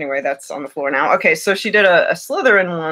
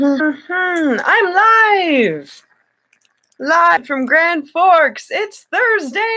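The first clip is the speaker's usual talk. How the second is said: put-on British accent, much higher and slow, like a grand TV host; 11 semitones higher, 3 dB louder, much slower than usual. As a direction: announce it in a hammed-up British accent. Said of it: "going in and out of British".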